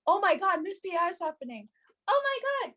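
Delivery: thrilled squeal of disbelief; mock excited squeal. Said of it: "I was like".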